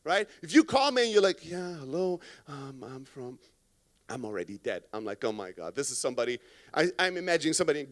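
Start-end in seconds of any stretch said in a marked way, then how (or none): 1.4-3.4 soft, lifeless phone greeting, sinking away; unexcited caller. Acted. Unenthusiastic salesperson calling a prospect, lifeless and fading. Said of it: "you don't sound excited". 4.1-6.4 low, soft, drained reaction; deflated dread. Acted. Callee reacting to a lifeless caller, deflated and low.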